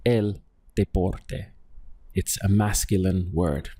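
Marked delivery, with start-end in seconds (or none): 0.0-1.5 slow model answer. Shown as a demonstration. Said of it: "would you say el or la".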